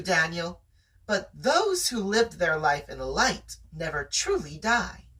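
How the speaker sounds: steady read-aloud storytelling voice; story narration. A narrator's reading. Narrator reading a chapter to a friend, storytelling voice. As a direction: tell the tale to your listener.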